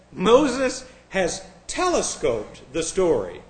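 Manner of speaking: slow, drawn-out mocking read of the scholar; mock quote. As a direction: savor each word as if it's absurd. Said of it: "He says".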